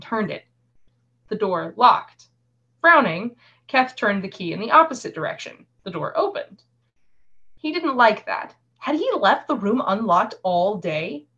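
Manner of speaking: measured audiobook-style reading; story narration. A narrator's reading. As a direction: read the tale aloud, pausing between sentences. Reads a novel excerpt aloud.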